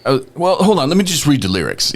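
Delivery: buy time with a bright jump up; excited stalling, pitch jumping up; eager stalling. Retold or imitated. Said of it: "he's like".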